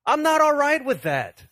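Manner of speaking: upset. Acted. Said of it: "when we get upset with the status quo".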